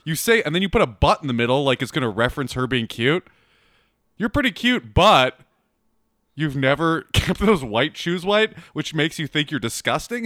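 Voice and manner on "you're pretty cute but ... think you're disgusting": high, slow, mocking singsong; mocking sarcastic read. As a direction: parody the cheesy line back at him. Mocking friend's pickup line.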